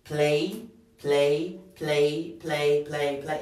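"play" repeated with a clear ay ending; "play, play, play" in a brisk repeated drill; open vowel ending. Shown as a demonstration. Teacher testing how the verb ends, "play" repeated on its ay sound. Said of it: "el sonido con el que termina es play".

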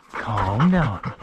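plain, firmer order to the dog; firm command. Real, not acted. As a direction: tell the dog to settle, no nonsense.

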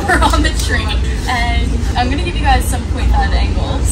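loud party shouting; rowdy and loud over music; rowdy party animal. Real, not acted.

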